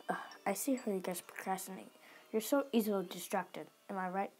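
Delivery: soft conspiratorial whisper; whispered aside. Acted. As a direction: confide the jab under breath.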